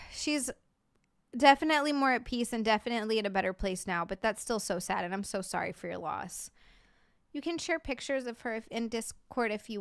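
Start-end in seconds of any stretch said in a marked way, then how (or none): 0.1-6.5 gentle condolence. Real, not acted. Condolences to viewer for a loss.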